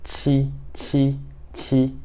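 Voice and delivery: Ti said with a puff of air; aspirated ti. Shown as a demonstration. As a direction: blow out the t in Ti. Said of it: "ele sozinho seria tipo esse som aqui".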